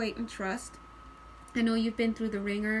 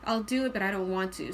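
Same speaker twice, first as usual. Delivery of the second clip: mildly grudging, lower-pitched agreement; reluctant; 4 semitones lower than usual. Acted. Reader voicing the ant's energy, reluctant agreement. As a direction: give in with little enthusiasm. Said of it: "but the energy of it".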